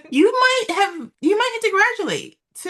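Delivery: high, laughing tease. Real, not acted. Laughing, teasing friend.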